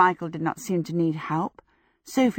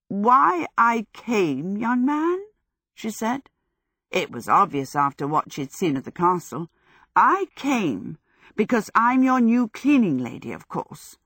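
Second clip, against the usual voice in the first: put-on old woman voice; 3 semitones higher than usual. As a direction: speak like a prim old woman. Old Sophie voiced in story.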